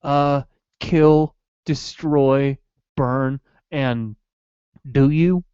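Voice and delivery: lightly voiced Goofy; a hint of Goofy questioning the kid. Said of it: "do the rest as Goofy".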